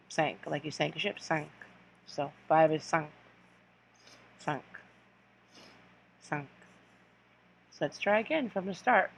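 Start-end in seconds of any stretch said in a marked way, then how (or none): 0.1-6.5 cinq said sank, nasal vowel; French cinq. Shown as a demonstration. Teacher modelling five in French: cinq as sank. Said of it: "the pronunciation is sank".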